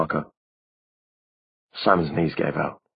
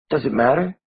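put-on high young girl's voice; a small girl reproaching him; girlish voice; 8 semitones higher than usual. A narrator's reading. Narrator voices Maureen.

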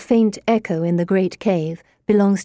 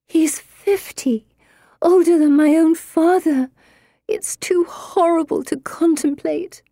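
moaning whisper; 10 semitones higher than usual. Acted. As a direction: whisper it in despair.

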